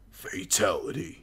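slow, drawn-out game announcer. Retold or imitated. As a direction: call it like the fight announcer. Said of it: "victim of a fatality".

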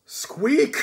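tiny high squeak; high rodent squeak; rat squeak. Acted. Death of Rats squeaks.

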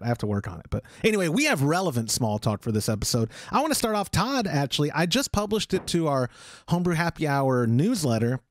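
usual speaking voice

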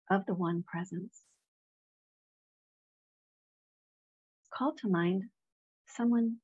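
measured meditation leader with long pauses; unhurried prayerful guidance, phrase by phrase; guided meditation. Real, not acted. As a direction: guide listeners gently into prayer, leaving space between phrases. Leads a meditation.

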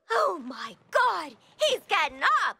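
high, gasping shock, slowed on oh my God; alarmed cry as the enemy gets up; gasp, then a high alarmed warning; startled alarm. Acted. Gasps as enemy rises again.

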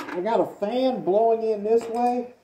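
muffled behind a respirator mask; talking through a half mask respirator. Real, not acted. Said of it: "through the respirator here".

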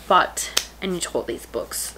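worn-out raspy voice, slow; hoarse voice. Real, not acted. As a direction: speak through a dying voice. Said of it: "My voice is really dying".

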